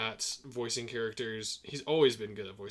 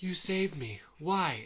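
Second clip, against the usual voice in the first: higher-pitched cartoon character quote; Monkey's stunned question; 5 semitones higher, slower than usual. Asking his rescuer why he saved him, lightly imitated. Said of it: "Monkey's like".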